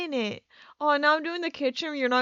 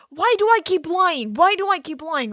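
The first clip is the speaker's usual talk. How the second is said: louder, frustrated outburst at yourself; exasperated self-scolding; 3 semitones higher, 6 dB louder than usual. Real, not acted. Scolding herself for lying.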